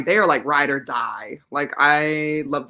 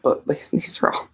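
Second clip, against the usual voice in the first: laughing under breath; whispered laugh. Real, not acted.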